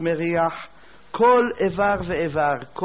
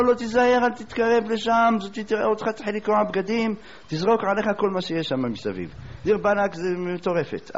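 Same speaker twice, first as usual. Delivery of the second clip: urgent warning; 5 semitones higher than usual. Retold or imitated. Townspeople warning the suitor away from the madwoman, urgent and high. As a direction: warn him off, alarmed.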